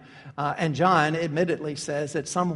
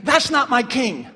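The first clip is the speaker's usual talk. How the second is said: defiant; 4 semitones higher, 5 dB louder than usual. Acted. Voicing Caiaphas's defiant rejection.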